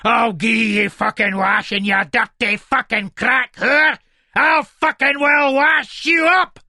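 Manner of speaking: loud, high, drawn-out roar; furious shout. Acted. Husband plunging wife's head in sink, enraged. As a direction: yell in full rage, stretching the final words.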